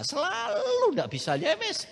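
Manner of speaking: high, crying despair; tearful. Retold or imitated. Failing pupil lamenting he never can, near tears. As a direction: let the voice break into a cry.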